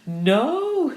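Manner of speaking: high, loud, drawn-out cry of disbelief; astonished exclamation. A narrator's reading. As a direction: exclaim it in amazed chorus. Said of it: "said all the ladies together".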